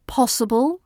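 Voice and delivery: possible with a rising question and no buzzing s; crisp possible. Shown as a demonstration. Teacher showing a clean possible. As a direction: say possible lightly, no buzzing zzz. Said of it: "No buzzing zzz sounds".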